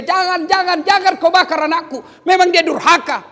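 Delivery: a mother begging them to stop; desperate shouted plea; mother crying out. Acted. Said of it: "ibunya berteriak".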